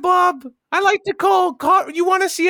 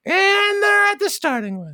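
race announcer; 3 semitones higher than usual. Pretend. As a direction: stretch the first word like a track announcer. Reprises the race announcer call.

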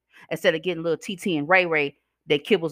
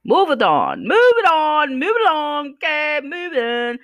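loud high call; 10 semitones higher, 4 dB louder, slower than usual. Real, not acted. Urging feuding exes to move on, calling out loud.

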